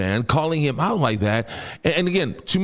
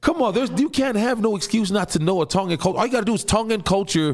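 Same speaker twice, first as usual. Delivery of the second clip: incredulous; 6 semitones higher than usual. Acted. Mocking people who don't look it up.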